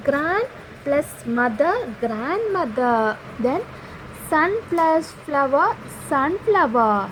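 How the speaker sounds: put-on reading each word pair very slowly to children; slow classroom reading. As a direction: say the pairs slowly so pupils follow. Reads compound word examples aloud.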